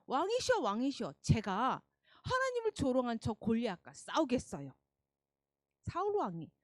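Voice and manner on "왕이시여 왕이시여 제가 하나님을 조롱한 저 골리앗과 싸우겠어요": put-on eager boy voice. Boy David addresses King Saul.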